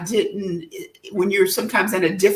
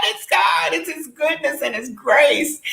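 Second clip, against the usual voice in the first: proclaiming; 4 semitones higher than usual. Real, not acted. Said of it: "repeated, proclaiming".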